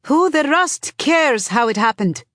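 high-pitched angry heckle; heckling shout. A narrator's reading. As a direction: call it out angrily over a crowd.

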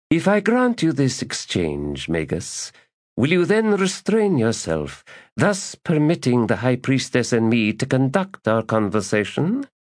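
high, pointed and stern; stern bargain. Acted. Lady setting terms for the magus, high and stern. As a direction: set terms firmly.

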